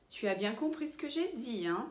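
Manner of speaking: "hein?" tacked on the end with a quick rise; checking tag hein. Shown as a demonstration. Teacher checks the listener understood, questioning "hein?" at the end. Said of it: "a gente põe no final da frase".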